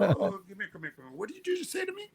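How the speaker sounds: mock stern father calling him over; a dad startled into confrontation; angry father. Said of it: "he said".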